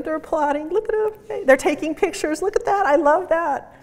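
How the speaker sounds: excited cooing at the video; delighted. Real, not acted.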